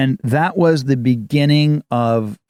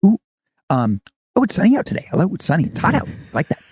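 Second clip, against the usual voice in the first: A musician bubbling over about small things, pitch jumping much higher; overjoyed musician impression with much higher squeals; excited musician; 5 semitones higher, faster than usual. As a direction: gush about raisins and sunshine like everything thrills you. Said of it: "He's excited about everything".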